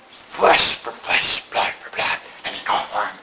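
slow, eerie voiceless whisper, low at the end; sinister Satan whisper. Acted. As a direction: hiss it out slowly like a devil. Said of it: "You didn't think he talked just like this".

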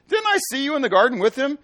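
high, loud challenge to Peter; accusing shout. Acted. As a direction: call him out across the courtyard. Repeating the accusation.

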